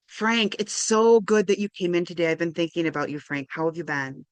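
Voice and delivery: gentle, personal welcome that leans on his name; warm personal greeting. Shown as a demonstration. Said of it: "Rather than".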